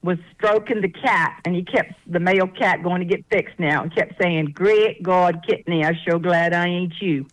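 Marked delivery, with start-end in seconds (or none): 4.5-7.3 lightly imitated Gullah farmhand, a little lower at the end. Storyteller quotes Gullah farmhand stroking the cat, light Gullah accent. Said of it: "very much in the Gullah culture".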